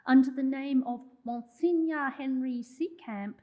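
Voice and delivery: a self-mocking attempt at a French accent; an amateur French accent, lightly done; terrible French accent. Shown as a demonstration. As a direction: put on a clumsy French accent for the name. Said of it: "terrible, terrible accent".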